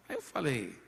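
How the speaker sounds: ordinary talk, nothing marked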